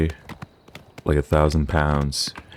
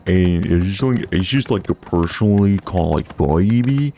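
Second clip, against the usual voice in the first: surfer bro voice; 3 semitones higher than usual. Shown as a demonstration. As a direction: talk like a chill California surfer. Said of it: "like, Cali surfer voicey".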